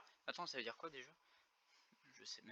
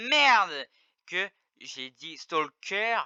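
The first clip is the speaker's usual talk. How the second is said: slow; 4 semitones higher, much slower than usual. Real, not acted. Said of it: "j'ai tellement un accent".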